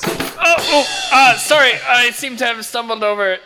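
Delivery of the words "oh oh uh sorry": sudden high startled yelp. Acted. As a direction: jump and gasp, caught off guard. Stumbling over drums, cymbal.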